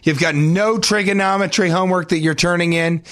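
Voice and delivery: lightly voiced incredulous teacher. Teacher grilling the student about trigonometry homework, mock incredulous. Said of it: "when your teacher's like".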